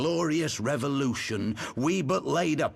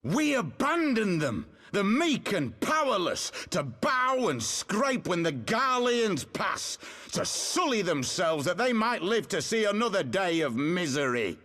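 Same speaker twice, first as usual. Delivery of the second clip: impassioned oratory climbing higher with each "We abandoned them"; rousing speech; 4 semitones higher than usual. Acted. A rebel leader rousing exiled countrymen, mounting impassioned oratory. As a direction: build the call to arms, each refrain higher.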